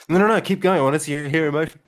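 high, laughing no no no; laughing tease. Real, not acted. Teasing the host to keep emoting, laughing. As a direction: egg him on through laughter.

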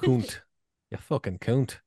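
"cunt" rounded towards coont; soft U sound. Shown as a demonstration. Host practising the suggested sound, "cunt" rounded to coont. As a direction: try "cunt" with an oo vowel. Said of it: "You spell it C O O N T".

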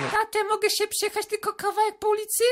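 put-on teenage daughter pleading with her father for the new car. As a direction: beg daddy like a spoiled teen girl.

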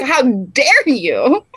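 slow, drawn-out mock outrage; heated indignation. Podcaster retelling her reaction to a hateful comment, drawn-out indignation. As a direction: stretch each word in retold indignation. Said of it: "I got so heated".

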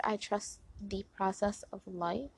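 softly spoken mantra; soft affirmation. Shown as a demonstration. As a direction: say it gently to yourself. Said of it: "Next one is".

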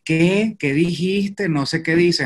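high, puzzled asking back; a mock baffled local; confused Mexicans. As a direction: mimic people who don't understand. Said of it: "todo el tiempo es".

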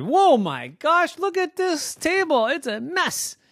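high, slow whoa of dismay; aghast at the messy table; shocked mom. Acted. Mommy sees the mess.

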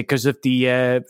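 put-on halting stab at a German accent; half-remember the villain's line in mock German accent; attempted German accent. Podcaster recalling the Nazi's excuse, attempted German accent. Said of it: "try to do a German accent".

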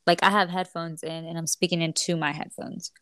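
speaking into headphones mic; muffled headphone mic. Real, not acted. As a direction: sound muffly through headphones. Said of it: "yours sounds kinda, like, muffly".

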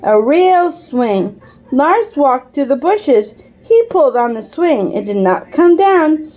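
put-on steady read-aloud voice for a child; calm parent reading a mystery book aloud; story narration. A narrator's reading. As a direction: read the chapter like a bedtime story.

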